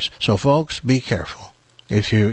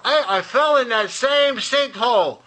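high squeaky chicken yelling up from a hole; 11 semitones higher than usual. Acted. Chicken in the sinkhole yelling up to the horse, high squeaky voice. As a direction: play a panicky little chicken, much higher.

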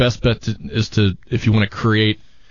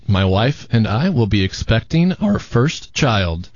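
voice breaking; slower than usual. Real, not acted. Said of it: "your, your voice broke. You almost cried".

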